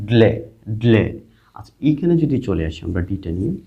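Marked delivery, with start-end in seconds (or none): 0.1-1.0 ড্লে said as one syllable, dle; pronunciation demo. Shown as a demonstration. Teacher blends D-L-A for students, pronunciation demo. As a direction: model ড্লে twice, pausing between. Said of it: "তো ডিএলএ".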